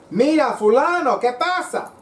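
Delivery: high, loud screeching voice of the cards; screaming cards. Retold or imitated. The tarot cards scream at the reader in a high voice. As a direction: screech it out like the cards yelling at him. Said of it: "they started screaming at me".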